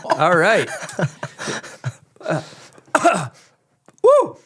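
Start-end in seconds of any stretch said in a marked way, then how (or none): 4.0-4.4 hype shout. Real, not acted. Hype after smelling salt hit.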